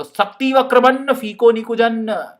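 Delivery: slow, lightly intoned holy-man chant; mock baba mantra. Teacher plays a saffron-robed baba chanting. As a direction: pretend to be a timepass baba. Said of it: "ऐसे हाथ करो और बोलो".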